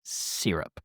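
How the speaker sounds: hushed, suggestive whisper; teasing whisper. Pretend. Cohost teasing about Canadian syrup, suggestive whisper. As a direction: whisper it slowly to tease.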